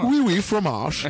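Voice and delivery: high, loud caricature of French; hammed-up foreigner making fun of French; mocking foreigner's French. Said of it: "ça se moquait un peu de mon accent".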